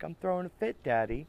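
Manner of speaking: high, lightly voiced little girl; a hint of small-child voice; imitating toddler daughter. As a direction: say it like a pouty two-year-old owning up. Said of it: "she'd be like".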